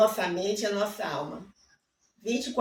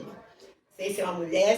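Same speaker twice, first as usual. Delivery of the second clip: ordinary delivery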